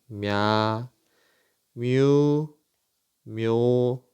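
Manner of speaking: 냐, 뮤, 묘 drawn out evenly, mya, myu, myo; syllable demonstration. Shown as a demonstration. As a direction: model 냐, 뮤, 묘 as separate long syllables. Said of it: "이렇게 읽겠죠".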